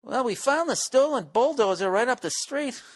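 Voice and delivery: high, put-on reply voice; mock official breaking the news; imagined accuser. Acts out someone answering his alibi.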